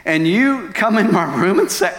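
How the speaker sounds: worked-up, incredulous argument, pitch climbing; retold indignant protest. Betrayed husband protesting to God, indignant. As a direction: plead your case in outraged disbelief.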